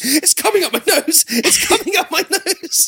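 acted, very high, frantic, panicky repeated cry. Retelling what someone kept saying while the speaker vomited in a lounge, retelling someone's panic. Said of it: "Sophie just panicking".

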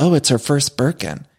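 low-key, understated, shady tone. Retelling a reality show moment over a cake: very quietly, imitating Dorit. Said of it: "very quietly says".

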